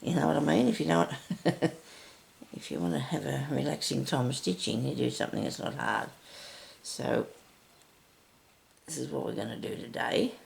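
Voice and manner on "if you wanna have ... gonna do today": raspy morning voice; a hoarse, raspy throat. Real, not acted. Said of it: "Sorry about my raspy voice".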